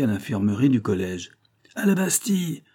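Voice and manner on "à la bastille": high-pitched call to arms; rallying cry. A narrator's reading. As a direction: cry out high, without much extra volume. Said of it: "cria Biot". (cri de ralliement aigu)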